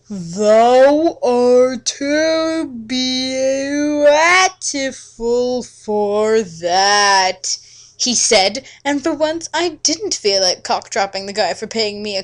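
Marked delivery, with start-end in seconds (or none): 0.1-7.6 slow, drawn-out mock-archaic vampire suitor; hammed-up old-world charmer, dragging every word; Edward's courtly voice. Edward's lines in old-fashioned voice.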